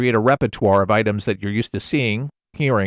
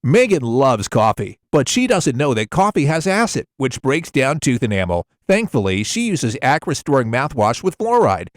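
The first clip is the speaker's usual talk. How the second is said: tighter, more focused ad read; tightened-up commercial read. Shown as a demonstration. Voice actor redoing the mouthwash spot, tightened up. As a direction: redo it tighter, ignore the camera. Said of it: "kinda tighten this up a little bit".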